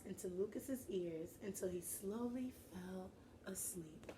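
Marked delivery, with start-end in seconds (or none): 1.7-4.1 plain. Shown as a demonstration. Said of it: "repeated as whisper".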